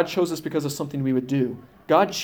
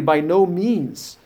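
slow, emphatic quoted denial; 3 semitones higher, 3 dB louder, much slower than usual. Retold or imitated. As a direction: stretch out the firm denial. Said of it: "Paul answers emphatically".

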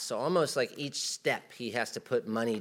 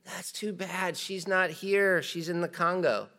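feigned regret; 6 semitones higher, slower than usual. Retold or imitated. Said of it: "and they'll say".

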